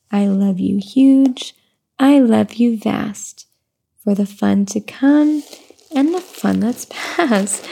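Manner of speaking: slow sing-song read-aloud; reading to baby. Acted. Mother reading a rhyming book to her baby, slow sing-song. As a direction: lilt the rhyme gently for the baby.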